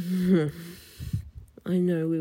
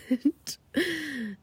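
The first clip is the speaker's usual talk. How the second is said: flirty giggle; 7 semitones higher than usual. Acted. Giggle after joke.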